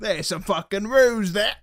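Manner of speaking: slow, put-on Australian; playful Australian accent; mock Australian accent. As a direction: draw it out in joking Australian. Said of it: "We've all tried it once".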